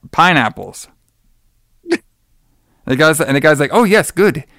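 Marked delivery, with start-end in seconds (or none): 3.7-4.4 lightly voiced South Asian shopkeeper accent, higher; chirpy clerk with a South Asian accent; imitating a South Asian store clerk accent. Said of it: "I can't even do his accent".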